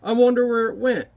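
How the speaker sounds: musing giant. Acted. Giant wondering where the smog went, puzzled. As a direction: wonder aloud in a lightly voiced giant. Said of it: "He's like".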